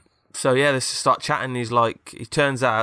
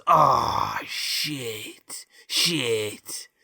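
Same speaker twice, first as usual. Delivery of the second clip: przegrywający robot; much slower than usual. Acted. Acted losing robot in story.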